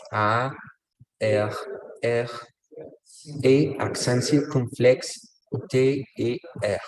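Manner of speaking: slow letter-by-letter dictation; spelling aloud. Shown as a demonstration. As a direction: spell it out with clear gaps between letters. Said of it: "Johnny nos dice". (deletreo lento, letra por letra)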